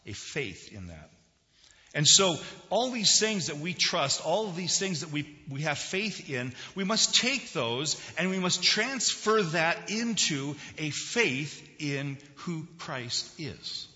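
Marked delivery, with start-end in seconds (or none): 1.9-13.9 higher, louder sermon voice, slowing to land the point; emphatic preaching. Real, not acted. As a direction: preach it with deliberate weight. Preaches with force.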